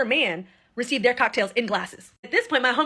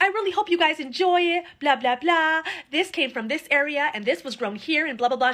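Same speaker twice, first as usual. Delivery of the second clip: high, sugary waitress gushing at the men; lightly voiced flirty waitress; mock flirty waitress; 4 semitones higher, slower than usual. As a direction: imitate her laying it on thick.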